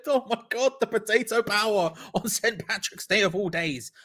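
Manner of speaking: high, giddy exclamation; excited goal celebration. Real, not acted. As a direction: celebrate at a high pitch, laughing as it starts.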